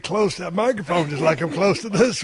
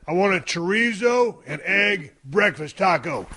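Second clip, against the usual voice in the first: enunciated; slower than usual. Retold or imitated. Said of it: "all I did, Teddy, was enunciate my words".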